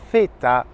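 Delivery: "feta" as zeta, starting with th; Z interdental. Shown as a demonstration. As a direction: say "feta" with tongue between the teeth. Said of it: "c'est comme le C E". (« feta » pour « zeta », langue entre les dents)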